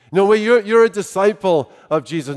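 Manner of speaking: lightly voiced, insistent accuser; accusing young woman. Young woman presses Peter on being a disciple, lightly acted accusation. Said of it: "this young woman who asks".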